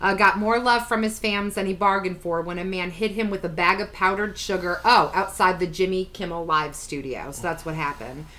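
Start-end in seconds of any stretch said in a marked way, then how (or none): 0.1-7.3 reading an article aloud; steady read-aloud delivery; news article read. Acted. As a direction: read it out evenly, like a news item.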